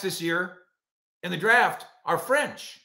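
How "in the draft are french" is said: ordinary talk, nothing marked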